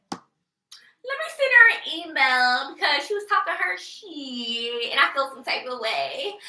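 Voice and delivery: a touch of a whiny hater voice, lightly put on; lightly voiced mock hater. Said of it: "Ain't doing nothing but".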